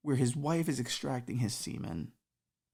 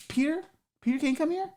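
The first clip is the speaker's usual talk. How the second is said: Jesus yelling for his helper; Jesus calling out; 14 semitones higher, faster than usual. Acted. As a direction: shout up for Peter, alarmed. Jesus calls for Peter.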